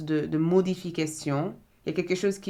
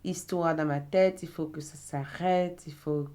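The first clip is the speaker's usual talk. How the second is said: desperate plea. Retold or imitated. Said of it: "crier à l'aide en disant".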